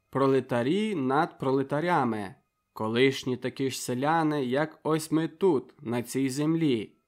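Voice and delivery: rousing speech to a village meeting; impassioned orator at an assembly; public speech. Acted. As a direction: address the crowd with conviction.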